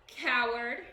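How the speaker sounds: loud, scornful yell; angry yell. A narrator's reading. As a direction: spit the insult at him. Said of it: "yelled Macbeth".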